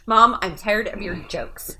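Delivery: slow mock whine through laughter; whiny kid. Reading texts as her five-year-old would, whiny. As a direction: whine it like a fed-up child. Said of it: "That's how everything is said when I read text".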